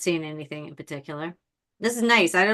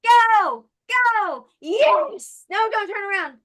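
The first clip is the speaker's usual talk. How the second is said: very high, loud mock pleading; escalating high-pitched cheering-on, acted; frantic urging; 13 semitones higher, 5 dB louder, slower than usual. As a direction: urge him along in hammed-up desperation. Acting out urging him onward.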